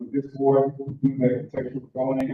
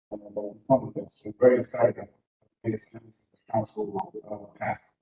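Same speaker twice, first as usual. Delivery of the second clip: muffled. Real, not acted. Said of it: "the audio is muffled".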